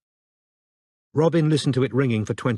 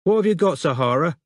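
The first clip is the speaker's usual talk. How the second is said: higher, muffled voice from across the room; muffled woman in background; 7 semitones higher, 4 dB louder than usual. A narrator's reading. Mother in background asks the child about the phone. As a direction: call to the child from another room. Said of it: "a woman's muffled voice said".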